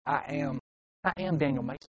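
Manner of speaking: soft, private self-affirmation; hushed declaration to yourself; quiet self-importance. Acted. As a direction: tell yourself quietly who you are. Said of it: "it causes me to go".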